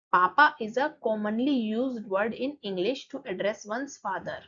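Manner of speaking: slow, careful reading of the English line; slow textbook reading. Shown as a demonstration. Teacher reads the book line slowly to students. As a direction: spell it out for the class, word by word.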